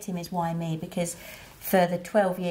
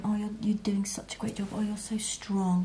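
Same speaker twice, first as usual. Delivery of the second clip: sympathetic onlookers; 3 semitones higher, 4 dB quieter than usual. Retold or imitated. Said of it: "people on your outside world going".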